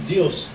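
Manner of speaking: Dios with a final S; Spanish pronunciation. Shown as a demonstration. Teacher showing how Spanish changes the intonation, Dios ending in S. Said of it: "muda a entonação".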